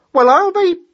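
high, loud hare exclamation; exclaim, then pause before the last word; astonished hare. Acted. Hare learns it's a mouse, astonished and high.

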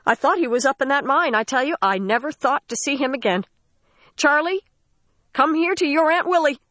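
put-on high, overjoyed old aunt; relieved old aunt. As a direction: cry out in relief to the boy. Aunt Willie relieved, voiced.

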